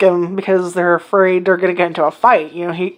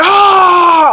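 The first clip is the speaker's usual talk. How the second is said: loud high charging yell; battle yell; 11 semitones higher, 6 dB louder than usual. Retold or imitated. The biker thinks she is charging him, so a loud yell. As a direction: shriek as if launching an attack. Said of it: "she just ran, like".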